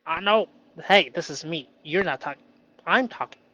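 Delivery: loud, high mock-assertive retort; playful pushback. Telling off his shadow voice, mock bold. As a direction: shut the critic down playfully. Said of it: "I could say".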